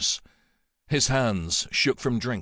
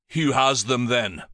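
spat; 4 dB louder than usual. Acted. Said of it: "Helgi spat".

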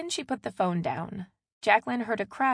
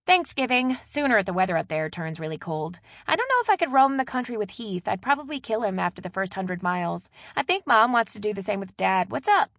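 lightly voiced chatty sister, a bit louder; animated phone chatter; chatty younger sister; 3 semitones higher, 6 dB louder than usual. Maddie talks on the phone.

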